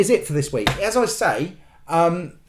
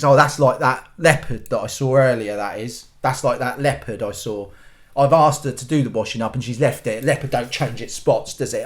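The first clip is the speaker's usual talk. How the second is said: smug husband; 6 semitones lower than usual. Retold or imitated. Husband voiced as smug man.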